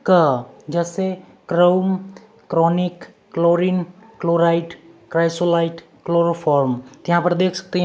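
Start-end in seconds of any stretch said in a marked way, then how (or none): 0.1-0.5 क said alone as a short k sound with its vowel. Shown as a demonstration. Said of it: "सीएच का उच्चारण होगा". 1.5-6.7 क्रोम, क्लोरीन and the rest begin with a hard k, word by word. Shown as a demonstration. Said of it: "सीएच का उच्चारण होगा".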